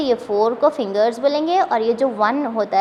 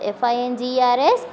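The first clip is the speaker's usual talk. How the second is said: quick spelling repeat; much faster than usual. Shown as a demonstration.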